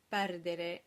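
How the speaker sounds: perdere with closed E's on both unaccented syllables; standard closed E's. Shown as a demonstration. Teacher modelling the standard for singers, perdere with closed unaccented E's. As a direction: say perdere in standard singers' Italian, closing the last two E's. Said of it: "with the closed E's on the unaccented syllables".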